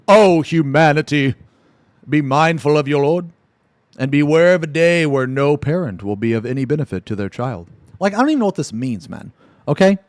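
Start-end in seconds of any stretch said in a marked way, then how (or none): 0.1-7.7 mock solemn preacher. Streamer reading a religious comment, mock solemn. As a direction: intone it like a sermon.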